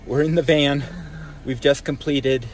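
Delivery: cold, shaky voice; shivering. Real, not acted. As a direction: speak while shivering with cold. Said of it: "I'm shivering".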